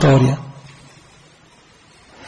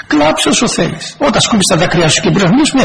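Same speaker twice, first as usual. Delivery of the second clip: laughing; 4 semitones higher than usual. Retold or imitated. Mock reply to crying partner.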